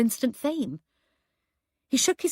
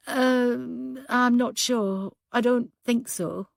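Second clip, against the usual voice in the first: tearful; 3 semitones higher, much slower than usual. Acted. Dazed woman who had been crying.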